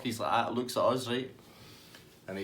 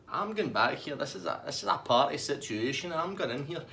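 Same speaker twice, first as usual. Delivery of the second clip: lightly voiced higher-pitched party hunter; Tasty Dave; 5 semitones higher than usual. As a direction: announce a sudden plan, pitched up a bit. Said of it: "Tasty Dave's like".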